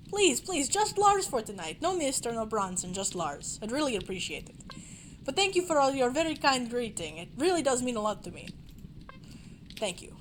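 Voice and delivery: put-on Lars lightly in a rough Russian accent; humble star asking for first names, accented; generic Russian accent. GM as Lars thanking the guests, mild Russian accent. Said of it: "generic Russian accent".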